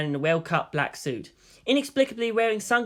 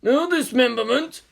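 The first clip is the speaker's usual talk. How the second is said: helpful shout; 9 semitones higher, 4 dB louder than usual. A narrator's reading. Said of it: "Old Man Yamada shouted helpfully".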